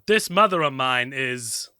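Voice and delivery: mock Boston accent; lightly put-on Boston accent; continued put-on accent. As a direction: take over in a rough Boston accent. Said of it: "please continue the accent".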